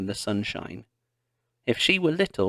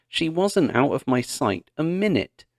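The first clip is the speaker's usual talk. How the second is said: shouting; 4 semitones higher, 3 dB louder than usual. Acted. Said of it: "he shouted".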